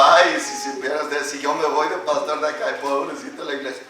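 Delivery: mock conceit, a touch of pity; proud pastor. Pastor pretends pride to warn his church, lightly mocking. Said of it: "si me sube a mí el orgullo".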